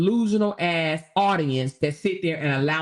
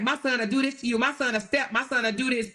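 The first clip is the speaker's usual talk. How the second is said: higher, bragging mock mother; 5 semitones higher than usual. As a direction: parody a boastful mom. Mocking boastful mother.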